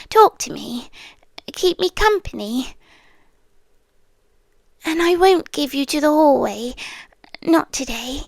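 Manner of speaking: intimate, lightly voiced otherworldly captor; a seductive haunted-house presence making a deal; captive spirit pleading. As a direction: coax the listener to stay, half whispered. Captor entity bargaining with listener.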